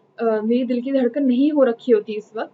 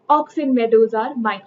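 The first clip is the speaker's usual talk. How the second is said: mock yell; 4 dB louder, much slower than usual.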